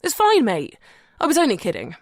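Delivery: high, loud, chummy let-off; breezy reassurance. A narrator's reading. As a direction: brush it off to reassure a mate. Tom breezily reassures his friend.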